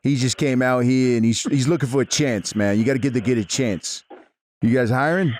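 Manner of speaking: put-on lightly done New York Italian accent; Italian-American accent. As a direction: play a Jersey wise guy on the phone. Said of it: "You should do a fucking Italian accent".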